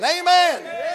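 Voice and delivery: acted shout of praise; crowd screaming. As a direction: cry it out like the crowd. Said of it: "And they're screaming".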